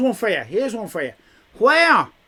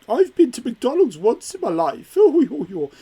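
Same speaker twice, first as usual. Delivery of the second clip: mock Welsh accent; 3 semitones higher, 3 dB louder than usual. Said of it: "like that".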